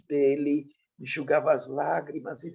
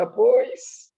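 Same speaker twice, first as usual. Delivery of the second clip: criança imitada; 11 semitones higher, 5 dB louder than usual. Retold or imitated.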